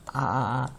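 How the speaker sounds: 아 held as an open "ah"; vowel sound demo. Shown as a demonstration. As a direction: model the vowel 아 on its own. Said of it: "이렇게 있도록 하자라고 정했어요". (아 소리를 따로 길게 발음)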